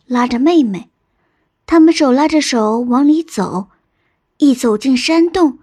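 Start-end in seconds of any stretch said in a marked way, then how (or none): none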